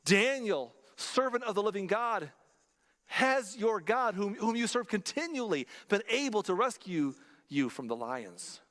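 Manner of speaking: calling out, slow and strained with anguish; a mild anguished call into the den; king's anguished cry to Daniel, understated. Retold or imitated. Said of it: "cries out in an anguished voice".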